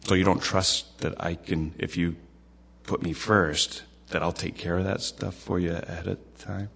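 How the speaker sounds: lightly voiced calm, patient questioning; measured, softening toward the end, with pauses; patient reply. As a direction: gently question someone who doubts you. Voicing the Lord's patient reply.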